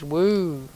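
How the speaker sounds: drawn-out "woo"; rising and falling playful whoop. Real, not acted. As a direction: let out a long little woo. Playful whoop while playing.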